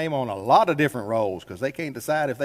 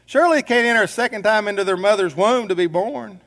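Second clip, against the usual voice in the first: puzzled Nicodemus; 6 semitones higher, 5 dB louder than usual. Retold or imitated. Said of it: "Nicodemus says".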